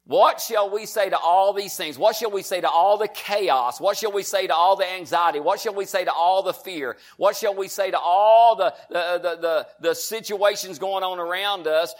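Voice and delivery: driving, repetitive pulpit rhetoric; emphatic rolling preacher's cadence; preaching. Real, not acted. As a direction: build a list, hitting each repeated question.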